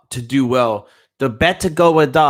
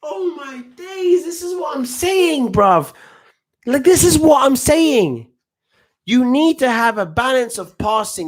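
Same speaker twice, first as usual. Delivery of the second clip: much higher, stretched-out exasperation; exasperated; 10 semitones higher than usual. Real, not acted. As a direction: cry out at the bad play. Exasperated at a bad pass.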